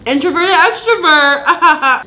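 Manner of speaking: slow, laughing punchline. Real, not acted. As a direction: laugh it out slowly. Laughing self-label.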